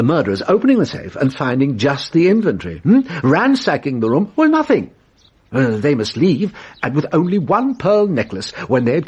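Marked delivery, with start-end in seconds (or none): 4.3-4.9 a sudden high leap on well, then a drop; dramatic mock dismay. Detective acting out the murderers finding nothing, with a high, loud leap. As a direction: play the robbers' empty-handed shock.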